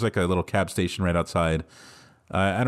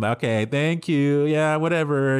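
higher, drawn-out humoring tone; mock appeasing; 5 semitones higher, 3 dB louder than usual. Driver humoring people yelling at him, mock appeasing. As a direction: brush them off with stretched, singsong thanks. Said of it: "like, appease them".

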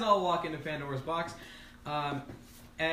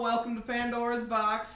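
usual Molly voice; 7 semitones higher, 5 dB louder than usual. Acted. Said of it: "my voice has always sounded like this, darling".

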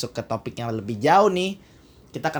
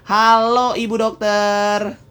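calling out; 7 semitones higher, 7 dB louder, much slower than usual. Real, not acted. Host calling out to guest.

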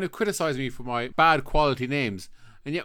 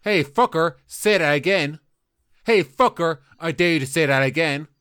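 louder, hammed-up pub threat; mock angry challenge; 5 dB louder than usual. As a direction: square up to the customer, mock furious. Landlord joins the sketch brawl.

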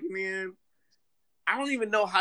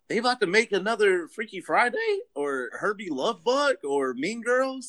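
retold disbelief; 5 semitones higher than usual. Retells own surprise at trending.

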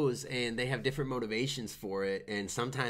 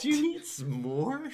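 much higher, slow mock taunt; mocking jeer; 11 semitones higher than usual. Cohost repeating the bar crowd's taunt, high mock jeer. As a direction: echo the heckler in a hammed-up sneer.

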